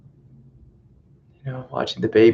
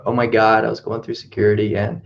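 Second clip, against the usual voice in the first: put-on valley girl voice. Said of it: "like a valley girl".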